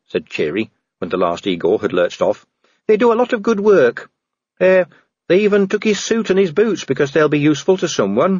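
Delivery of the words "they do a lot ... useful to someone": higher-pitched, respectful subordinate; earnest dwarf officer. Acted. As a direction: speak up earnestly in a raised pitch. Cheery defends the Igors.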